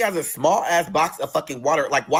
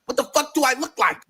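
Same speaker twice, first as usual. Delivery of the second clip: retold exasperated rant, rising at the end; fed-up outburst; 3 dB louder than usual. Patient fed up with the psychiatrist's questions, exasperated. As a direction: snap back, acting out being fed up. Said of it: "I'm acting just like that".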